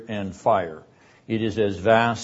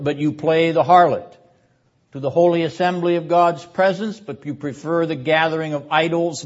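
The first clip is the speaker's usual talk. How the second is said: higher, louder declaiming voice; raised rhetorical reply from the pulpit; impassioned prophetic answer; 5 semitones higher, 5 dB louder than usual. Acted. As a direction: proclaim it as the wounded prophet.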